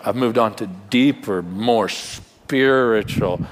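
a hint of a dismissive, self-satisfied believer, quick then drawn out; mock the superior Christian, stretching the last words; lightly voiced smug believer; smug churchgoer. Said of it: "And you go".

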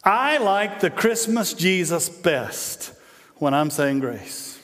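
slow, deliberate insistence, lightly acted; lightly voiced stubborn man, words drawn out; Ricky Bobby. Husband defending his pick for grace, slow insistence. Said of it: "Ricky gets ready to say the prayer, and he goes".

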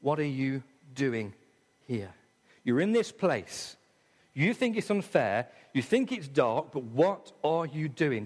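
the Holy Spirit gently questioning a discouraged believer; gentle Holy Spirit. Acted. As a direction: ask it tenderly, like a patient friend. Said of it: "the Holy Spirit whispers in your ear".

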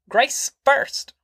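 very high, shrill repeated demand; shrill clamour. A narrator's reading. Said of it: "Grandma clamoured".

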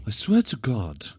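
mock threat in a German accent. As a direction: threaten like a comic German camp henchman. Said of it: "that was a great German accent".

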